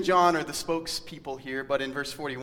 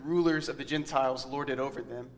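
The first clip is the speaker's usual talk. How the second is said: scripture reading. Acted. Reading scripture passage aloud.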